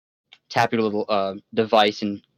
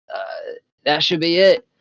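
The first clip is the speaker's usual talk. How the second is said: smooth con man; 3 semitones higher than usual. Acted. NPC boss voiced by GM.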